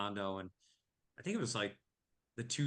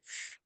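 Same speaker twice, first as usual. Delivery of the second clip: breathy phew; 8 dB quieter than usual. Retold or imitated. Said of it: "that stuck in my mind".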